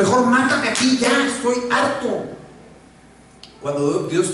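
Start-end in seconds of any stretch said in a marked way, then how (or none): 0.0-2.3 high, weary mock despair; mock fed-up Moses. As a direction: sigh it out as if done with everything. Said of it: "Y entonces le dice". (Moisés harto, agudo y cansado)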